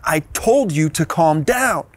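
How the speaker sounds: firm, measured reprimand, retold; retold stern warning to a child; stern parent. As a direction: lay down the law slowly, without shouting. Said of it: "a very stern voice".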